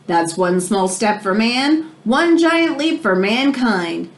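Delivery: slow, deliberate famous quote; quoting Armstrong slowly. Retold or imitated. Reading Neil Armstrong's moon words to a listener, slow and deliberate. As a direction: give each word its weight, slowly. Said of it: "said Neil Armstrong".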